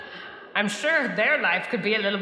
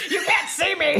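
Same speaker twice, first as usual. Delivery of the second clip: otherworldly voice; 7 semitones higher than usual. Acted. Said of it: "otherworldly voice that sounds awfully like Flowerkraut".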